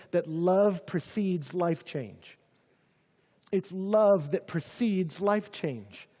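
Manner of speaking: "love" leaned on, words spaced out slowly; slow emphatic point. Shown as a demonstration. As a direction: drive home "love precedes life change". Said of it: "this is our third point".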